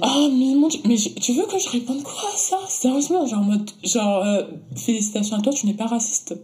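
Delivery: mock-congratulate with heavy sarcasm; sarcastic. Sarcastic reply to racist messages.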